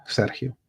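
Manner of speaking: "Sergio" with h in place of g; Spanish h sound. Shown as a demonstration. Host spelling out the sound for chat, "Sergio" with a Spanish h. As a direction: pronounce "Sergio" as SER-hee-oh. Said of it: "With he, Sergio".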